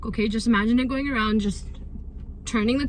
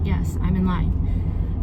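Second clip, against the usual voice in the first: calm; 4 semitones lower, much slower than usual. Shown as a demonstration.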